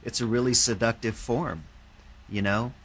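put-on light Welsh accent; a hint of a Welsh accent. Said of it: "in his Welsh accent".

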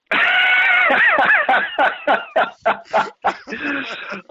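long, loud, high cackle; uproarious high-pitched laughing fit; real laughter. Real, not acted. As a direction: burst out and keep laughing. Bursts out laughing at story's end.

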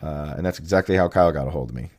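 usual speaking voice

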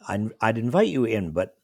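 halting, tripping over words; stammering. Retold or imitated. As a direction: stumble through it, queasy. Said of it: "I stammered".

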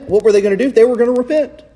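preacher's rising emphasis; rising excitement. Acted. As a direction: lift it up with certainty. Rhetorical build.

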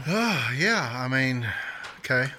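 talking through a mouthful; mouth full. Real, not acted. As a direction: answer around a bite of food. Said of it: "I caught you with your mouth full".

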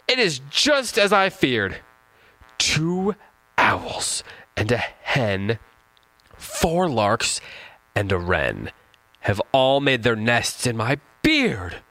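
old man's lament, voiced high and slow; lightly hammed-up old man with a beard. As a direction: read the old man's words in a squeaky elderly voice. Poem quote, old man speaking.

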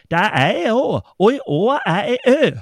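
exasperated peasant shouting in Värmland dialect; angry shout. Retold or imitated. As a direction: yell it at him in rage. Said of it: "skrek jag, för jag blev rasen".

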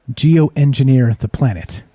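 slow repeat. Shown as a demonstration. Streamer repeating the headline to question it, slow and skeptical. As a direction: turn the phrase over slowly, skeptical. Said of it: "What does that mean?".

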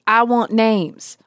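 bad Indian accent. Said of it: "that's a really bad Indian accent".

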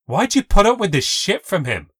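loud, high angry demand; lost it. A narrator's reading. Narrator losing her temper with Kayla, angry and loud. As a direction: blow up at her friend. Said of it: "I just lost it".

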